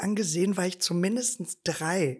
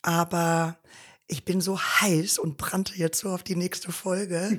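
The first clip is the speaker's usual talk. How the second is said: hoarse voice from inflamed vocal cords; husky and strained, breaking into whisper; smoky voice. Real, not acted. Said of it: "Ich hatte einfach nur entzündete Stimmbänder".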